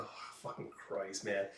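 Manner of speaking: whispered aside under breath; real muttered curse. Real, not acted. Reader reacting to the grim page, whispered curse. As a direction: curse to yourself. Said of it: "own aside while reading".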